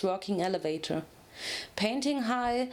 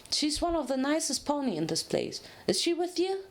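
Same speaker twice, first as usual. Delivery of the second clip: higher, eager little dragon voice; baby dragon Spike; 6 semitones higher than usual. Acted. Spike answering Twilight about the doctor, high and eager. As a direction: play a small, hopeful young dragon.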